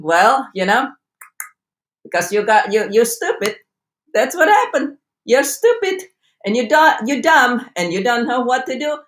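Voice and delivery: mock-scolding, berating a friend; harsh inner critic. Berating a distressed best friend, mock harsh. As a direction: talk down to them like they're stupid. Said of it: "Would you say to your friend".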